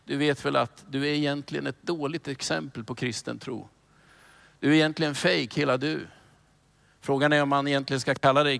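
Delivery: a hint of a sly accuser murmuring in your ear; accusing inner voice. Preacher voicing the devil's accusations to a believer, low and mild. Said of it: "rösten som ibland viskar till dig".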